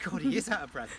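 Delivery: chuckling at the puffing ram; laughing. Real, not acted. Laughing at the breathless ram to the camera. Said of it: "He's out of breath".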